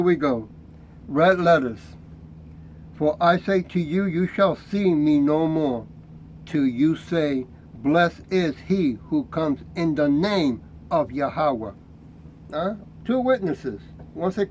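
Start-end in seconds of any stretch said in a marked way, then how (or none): 2.9-11.7 slow, measured reading of the verses; scripture reading. Acted. Preacher reading Jesus's words to the congregation, slow and solemn. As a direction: read the red letters slowly and solemnly.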